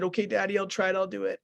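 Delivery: a hint of a small son giving in to his dad; young son agreeing. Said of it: "and so he said".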